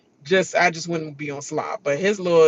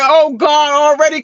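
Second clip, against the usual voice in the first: louder, exasperated groan; imitating husband; 9 semitones higher, 8 dB louder than usual. Imitating her husband catching her crying, exasperated. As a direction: sigh it out, fed up. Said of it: "He said".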